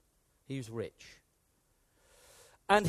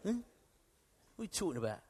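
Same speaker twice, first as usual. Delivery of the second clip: British bloke; 5 dB quieter, much faster than usual. Retold or imitated. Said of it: "That's how it comes across".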